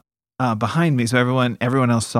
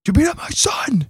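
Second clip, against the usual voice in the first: imitated screaming dad. Dad confronts the bullies who beat his son, mock furious yell. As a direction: act out dad confronting his son's attackers. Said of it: "just screamed at them".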